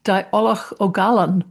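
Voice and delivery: slow, careful Welsh "Diolch o galon". Shown as a demonstration. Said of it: "I think that's right".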